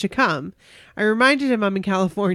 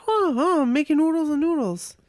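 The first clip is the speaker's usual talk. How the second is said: much higher, giddy mock teen girl; imitating her teen self; 8 semitones higher than usual. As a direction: squeak it out like a starstruck fourteen-year-old. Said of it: "And I was like".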